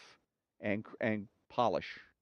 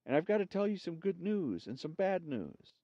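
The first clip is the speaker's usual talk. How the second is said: ghost voice; 7 semitones higher than usual. A narrator's reading. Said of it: "Sam tells news".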